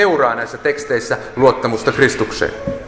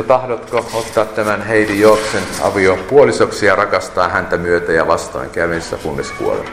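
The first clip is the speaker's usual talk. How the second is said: lightly voiced pastor reading vows, lower; officiating pastor; 5 semitones lower than usual. Pastor asks the groom for his vows, lightly acted officiant. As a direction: recite the wedding question, sinking lower towards the end. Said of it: "pastori kysyi".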